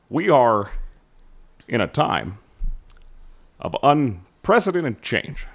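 lightly voiced presidential address, halting between phrases; Barack Obama impression. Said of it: "Barack Obama impersonation".

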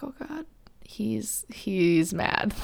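slow, breathless whispered oh God; nervous whisper. Retold or imitated. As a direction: whisper it as if he might hear you. Scared when dad says sit down.

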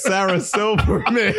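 high shrieking laugh; screaming laughter. Real, not acted. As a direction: shriek it into the mic. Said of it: "Stop screaming in the mic".

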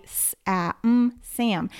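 "S-, a, m" sounded one by one, then "Sam" blended; segmenting then blending. Shown as a demonstration. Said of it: "segment the sounds and then blend".

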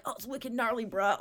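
mock surfer bro. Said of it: "It's not like".

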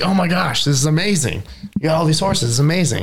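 overjoyed villagers, hammed up; mock townsfolk delight. Storyteller voicing thrilled villagers, mock excitement.

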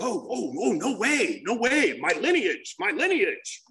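eager, excited gush; stoked. Retold or imitated. Young speaker thrilled to learn of his sponsor lineage, excited. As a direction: gush about it like a thrilled kid. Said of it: "I was all stoked, man".

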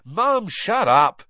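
loud, high, drawn-out yell; exasperated son yelling over a scream. Acted. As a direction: shout your mother down urgently. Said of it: "Ron yelled".

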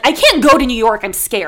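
mock scared. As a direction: act scared, half-joking. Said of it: "I think I'm, like, too afraid".

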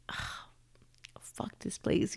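unvoiced breathy aside; whispered curse. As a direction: hiss it under your breath so nobody hears. Muttered reaction under her breath.

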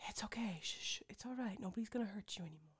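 soothing whisper to a horse; hammed-up horse whisperer whisper. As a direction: shush and calm a panicked horse. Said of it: "And he goes".

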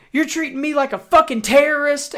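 high, loud mock outrage; imitated screaming. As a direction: yell it like an aggrieved passenger. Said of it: "starts fucking screaming on the plane".

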